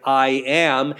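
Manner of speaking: "I am" leaned on hard; "I am" said with firm emphasis; emphatic I am. Shown as a demonstration. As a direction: hit the words "I am" with weight. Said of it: "start off with a very emphatic".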